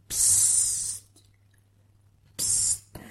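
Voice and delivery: unvoiced shushing; a soft shushing sound; hushing. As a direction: hiss it like asking for silence.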